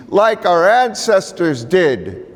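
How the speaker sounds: high, slow, solemn elder; elder's voice. Retold or imitated. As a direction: intone it like a wise old elder.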